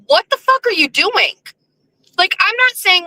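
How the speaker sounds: high, exasperated what-the-fuck; retold outrage. Streamer recalling how he reacted to the retweet, outraged. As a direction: throw it at him in disbelief. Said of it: "And I was like".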